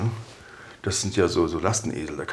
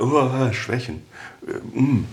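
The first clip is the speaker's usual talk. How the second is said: mildly hammed-up dread with a groaned "oh"; mock horror; 4 semitones higher, slower than usual. Coach mimicking a Be Strong facing weaknesses, mock horror. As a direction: act a touch appalled, as if recoiling.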